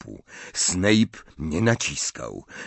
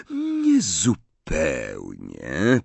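calm; 3 semitones lower, much slower than usual. Acted. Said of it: "powiedział spokojnie Snape".

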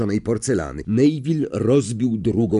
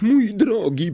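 high, loud seer's cry; 12 semitones higher, 5 dB louder, slower than usual. A narrator's reading. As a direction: call out to him in alarm. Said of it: "zawołała profesor Trelawney".

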